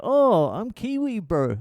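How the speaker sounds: put-on high, light New Zealand accent; Kiwi accent. Voicing the Kiwi dad.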